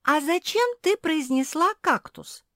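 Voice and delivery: genuinely baffled by the word; astonished. A narrator's reading. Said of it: "изумилась Жози".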